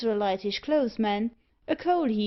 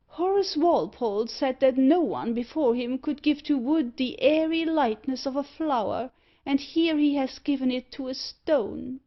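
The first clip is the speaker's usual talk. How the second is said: rapt admiration; 4 semitones higher, 3 dB louder than usual. Acted. Loftus raptly praising the carving.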